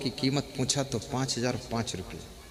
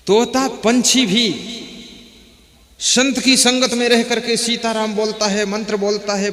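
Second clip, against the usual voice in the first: loud, raised, emphatic sermon delivery; full-force preaching; 4 semitones higher, 10 dB louder than usual. Real, not acted. Preacher warning brothers and sisters against bad company, forceful exhortation. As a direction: build to a forceful moral exhortation. Preacher drives home the story's moral.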